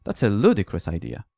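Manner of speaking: teacher imitating the student's second, crosser try. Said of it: "but be more annoyed".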